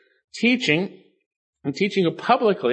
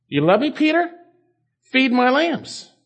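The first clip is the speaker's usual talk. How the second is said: pointed challenge; 8 semitones higher than usual. Retold or imitated. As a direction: voice Jesus pressing a disciple, pitched high. Preacher paraphrases Jesus restoring Peter.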